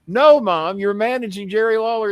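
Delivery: high, loud insisting; exasperated son insisting; insistent retold shout. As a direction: overrule your mother loudly. Insisting at mom.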